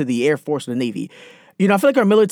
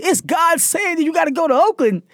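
mom's voice; 12 semitones higher than usual. Retold or imitated. Mom voiced in story.

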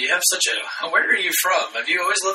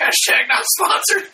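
shouted tagline; slower than usual. Acted.

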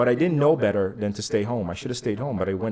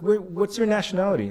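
high, mock-tough challenge; imitating tough kid; 9 semitones higher than usual. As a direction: play the scrappy kid squaring up. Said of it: "He's like".

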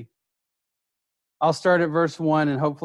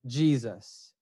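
hushed name; 4 semitones lower, 5 dB quieter than usual. Shown as a demonstration. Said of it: "Everybody say".

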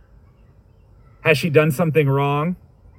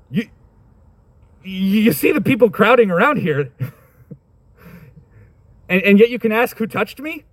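much higher, mocking disbelief; incredulous disciples; 7 semitones higher than usual. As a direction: disciples scoffing at Jesus, incredulous and high. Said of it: "the disciples are like".

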